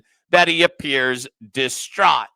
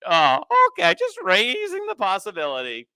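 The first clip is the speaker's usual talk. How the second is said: sarcastic; 4 semitones higher, 4 dB louder than usual. Real, not acted. Sarcastic repeat of claim.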